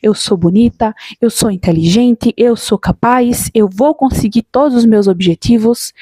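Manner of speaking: slow, deliberate self-affirmations; calm mirror affirmations, word by word. Shown as a demonstration. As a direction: say each line slowly, like into a mirror. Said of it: "você se encarar no espelho e dizer".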